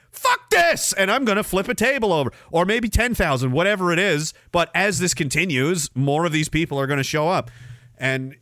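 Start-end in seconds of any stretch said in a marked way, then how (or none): 0.1-2.3 hammed-up rebel snapping; mock outburst. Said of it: "one of them might be like".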